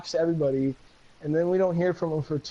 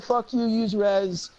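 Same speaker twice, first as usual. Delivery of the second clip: slow mock dramatic; 3 semitones higher, much slower than usual. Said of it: "K D C said".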